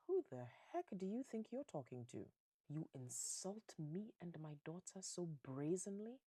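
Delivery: a touch of offended indignation; indignant father. Acted. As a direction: play an affronted father. Insulted father confronts the family.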